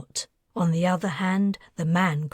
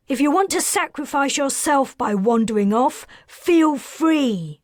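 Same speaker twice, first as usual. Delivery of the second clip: scornful; 7 semitones higher, 5 dB louder than usual. A narrator's reading. Wilder still scorning Maddox.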